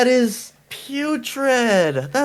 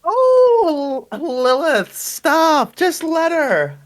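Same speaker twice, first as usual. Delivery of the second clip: high-pitched, pleading protest; 8 semitones higher, much slower than usual. Acted. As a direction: beg her to stop, pitched up. Companion pleads with Lilith.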